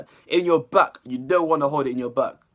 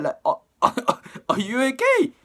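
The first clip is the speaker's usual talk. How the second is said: much higher, incredulous "are you okay, fam?"; mock-concerned question; 8 semitones higher than usual. Real, not acted. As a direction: tease him as if worried about him. Mocking the lyric's meaning.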